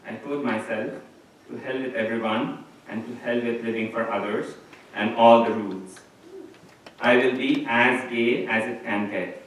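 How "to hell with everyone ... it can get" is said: building defiance. Retold or imitated. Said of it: "I snapped".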